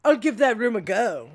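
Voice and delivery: put-on shitty British accent; badly imitated British accent; Russell Brand. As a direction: have a clumsy go at sounding British. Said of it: "you have a shitty British accent".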